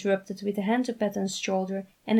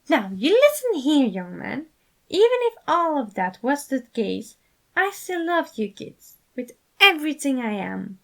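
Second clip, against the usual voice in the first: higher, louder, firm fatherly voice; passionate father; 7 semitones higher, 6 dB louder than usual. A narrator's reading. Patton tells Roman firmly he loves him. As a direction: put your whole heart into it like a dad. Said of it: "He spoke with so much passion".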